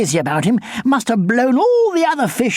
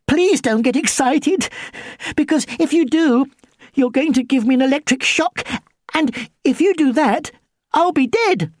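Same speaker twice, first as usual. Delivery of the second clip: higher, urgent plea; anxious pleading; 5 semitones higher than usual. Acted. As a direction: plead fast to calm a threat. Begging the eel not to shock.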